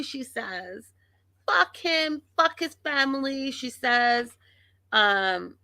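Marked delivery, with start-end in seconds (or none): 1.5-3.5 high, imitated tirade; mock angry cursing. Vlogger imitates wife cursing his family, high mock anger. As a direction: keep her fury up high in pitch.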